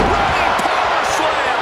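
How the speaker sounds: excited call. Real, not acted. Commentator calls a big move.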